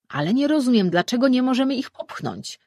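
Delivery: protesting god. Acted. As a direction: push back at the other gods.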